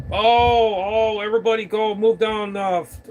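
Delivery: high, loud parody of urgent orders; mock fuss. Mimicking operators changing frequency.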